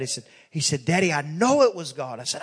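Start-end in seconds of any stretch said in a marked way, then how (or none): 0.8-2.2 lightly acted earnest child, firm on "know"; a touch of childlike conviction; earnest insistence. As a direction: retell a boy's first sincere insistence. Retold son earnestly insists to father.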